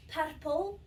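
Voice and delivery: "Purple" with rolled Scottish R's. Shown as a demonstration. Patient showing the visitor how, rolled-R Scottish "Purple". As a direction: say "Purple" with both R's trilled. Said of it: "maybe I can imitate it".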